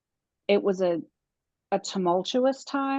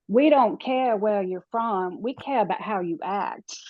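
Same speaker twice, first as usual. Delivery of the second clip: put-on Southern accent. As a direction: lay on a friendly Southern accent. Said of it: "I'm gonna say it in my best Southern accent".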